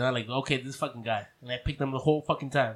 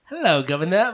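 British accent; 3 semitones higher, 6 dB louder than usual. Shown as a demonstration. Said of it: "Give us a little taste of that".

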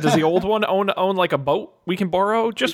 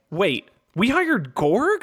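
retold disbelief; much slower than usual. Retells his own belated realisation.

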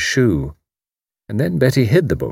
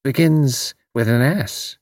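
encouraging Irish landlady; 5 semitones higher, slower than usual. A narrator's reading.

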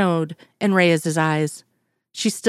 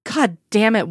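shrill outburst; 3 semitones higher than usual. Acted. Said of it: "her voice rang out shrilly".

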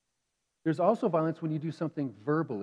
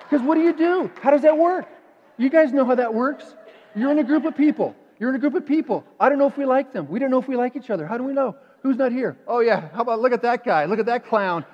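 gossip voice; 8 semitones higher, 10 dB louder than usual. Acted. Acting out group gossip.

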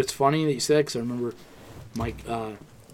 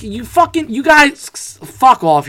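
mock yell; 12 semitones higher, 12 dB louder, much slower than usual. Yelling at Patriots fans.

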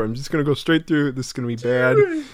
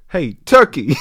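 put-on loud call with a failing British accent; British impression falling apart on a yell; slipping British accent; 8 dB louder than usual. Impressionist calling to a turkey, slipping British accent. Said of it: "losing the British accent completely".

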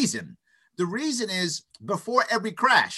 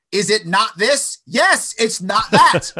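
hammed-up laughing quote; 3 semitones higher, 7 dB louder, slower than usual. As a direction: act it out with a laugh. Acted dialogue, laughing.

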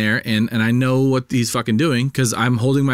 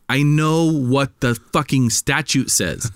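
borderline snippy; 3 semitones higher, much slower than usual. Retold or imitated. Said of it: "I was borderline here".

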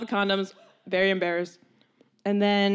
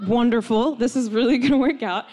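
حماس مصطنع; 3 semitones higher, 5 dB louder than usual. Retold or imitated. Acted delighted reaction in story.

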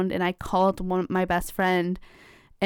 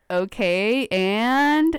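expectant prompt; 2 semitones higher, much slower than usual. Retold or imitated. Brother waiting for the rest of the story, expectant. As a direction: prompt them to go on, lifting the last word. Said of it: "waiting for the story".

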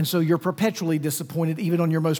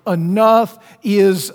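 fed up; 2 semitones higher, 8 dB louder, slower than usual. Retold or imitated. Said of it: "But now they're like".

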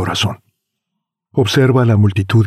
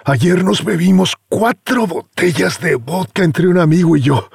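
put-on bragging young man; 8 semitones higher than usual. Youth bragging.

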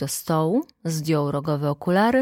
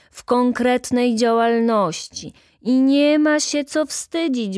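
raised, slow, declaiming chairman's voice; pompous speech; 6 semitones higher, 6 dB louder than usual. Acted. Chairman praising his union at the meeting, pompous oratory. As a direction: orate proudly to the meeting like a functionary.

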